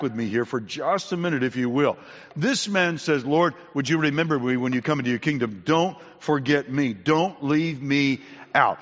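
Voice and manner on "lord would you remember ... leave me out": a preacher's mild plea, slowing at the end; retold plea. Dying thief asks Jesus to remember him, earnest retold plea. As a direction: plead earnestly, stretching the final words. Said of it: "this is a plea".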